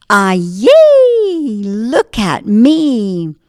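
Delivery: put-on a tiny pastry boy thrilled to be alive; gleeful cry. Beignet boy comes alive.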